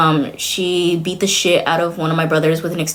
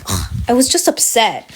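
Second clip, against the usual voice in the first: mom's reply; 4 semitones higher than usual. Retold or imitated. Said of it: "she was like".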